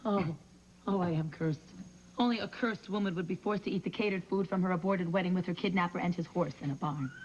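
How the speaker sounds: melodramatic lament. Acted. Melodramatic self-pity.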